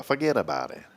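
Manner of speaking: lightly imitated tough "fuhgeddaboutit"; Mickey Blue. Host quoting a character mid-relaxation, lightly put-on voice. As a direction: toss it off as a soft catchphrase impression. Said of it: "like that guy, Mickey Blue".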